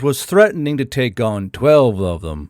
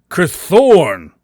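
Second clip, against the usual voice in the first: loud holler, a bit higher; hollered name; 5 semitones higher, 7 dB louder than usual. A narrator's reading. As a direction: shout the name across the comms. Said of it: "Grell hollered".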